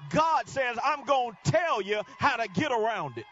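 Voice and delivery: loud, high, driving sermon shout; full-force preaching. Acted. Preacher rousing the congregation, full-force preaching shout. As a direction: preach it out to the rafters.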